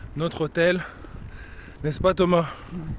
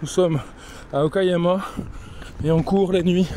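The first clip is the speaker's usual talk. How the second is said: out of breath. Real, not acted. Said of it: "On est en train de courir".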